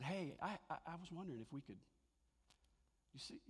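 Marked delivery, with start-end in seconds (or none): 0.0-1.8 polite request. Retold or imitated. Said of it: "Instead, he said".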